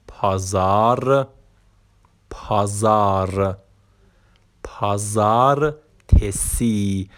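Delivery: پازار said slowly and clearly, syllable by syllable; teacher says پازار and پازار تسی slowly; careful pronunciation. Shown as a demonstration. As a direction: sound out پازار for the class.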